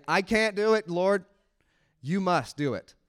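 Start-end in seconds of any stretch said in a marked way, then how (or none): 0.1-1.2 humble prayer. Retold or imitated. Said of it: "humble yourself before God and say".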